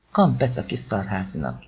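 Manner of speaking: low, understated self-satisfaction; mildly satisfied. A narrator's reading. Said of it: "milyen elégedett a hangja". (visszafogottan elégedett, mély hangon)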